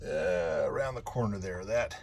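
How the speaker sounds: strained, grunting while wrenching; effort grunt. Real, not acted. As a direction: talk through the strain of lifting. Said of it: "sorry, so much grunting".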